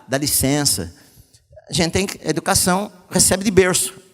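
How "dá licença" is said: polite request. Shown as a demonstration. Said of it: "não é empurrar".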